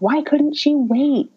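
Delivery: high, drawn-out mock wail; imitating hysterical crying. Patient upset after the doctor's check, imitated hysterical cry. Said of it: "I started hysterically crying".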